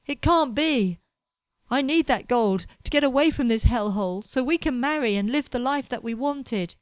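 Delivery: mild anguished cry of disbelief; shocked denial. Acted. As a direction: refuse to accept the news.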